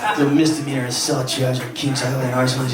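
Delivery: lightly voiced anchor reading headlines; Chris Renier. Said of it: "He can't get out of his head".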